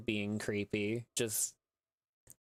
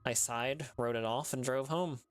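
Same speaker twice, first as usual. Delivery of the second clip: story narration. A narrator's reading. Narrator reading a creepy tale to listeners, measured storytelling. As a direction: draw listeners into a sad ghost story.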